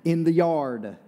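"yard" finished with a clear r, the local way; local Carolina way. Shown as a demonstration. Preacher showing his congregation's own way of saying yard. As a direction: say "yard" as an Eastern North Carolinian would. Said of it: "we park".

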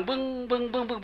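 repeated droning hum; imitated ear ringing. Monk describes an untreatable ear complaint, droning imitation. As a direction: mimic the noise ringing in the ear. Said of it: "หูดัง".

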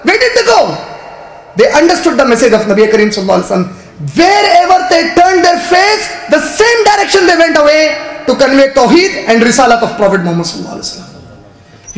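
impassioned preacher; fiery preaching. Real, not acted. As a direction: drive the point home from the pulpit. Preaching at full force.

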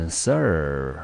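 "sir" said alone as the first syllable of serve; first syllable sound. Shown as a demonstration. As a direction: draw out "sir" as one syllable. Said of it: "第一个音节一样的念成". (把 sir 作为第一音节拉长念)

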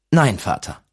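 put-on boy firmly refusing the abbot; defiant refusal.

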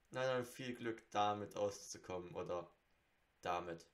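talking while chewing gum. Real, not acted. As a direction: gum in the mouth. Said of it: "ich hab Kaugummi im Mund".

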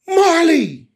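very high, loud yell; shouted. Acted. Teacher acting the friends' sudden shout, shouted. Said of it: "they shouted".

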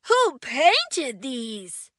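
slow, wondering question; a friend wondering aloud who painted these; curious question. Acted. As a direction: ask in wonder. Friends asking about painter.

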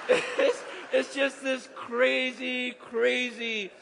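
loud laughter spilling into slow words; laughing. Real, not acted. Preacher laughing with the congregation over the windfall. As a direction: laugh through it.

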